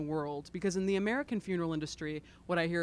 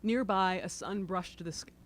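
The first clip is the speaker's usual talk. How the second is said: choked up, throat tight; choking up. Real, not acted. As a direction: voice catching with emotion. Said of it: "I sound like I'm choking up".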